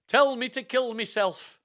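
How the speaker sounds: loud, high melodramatic wail; mock sobbing. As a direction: cry out in hammed-up despair. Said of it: "I sobbed".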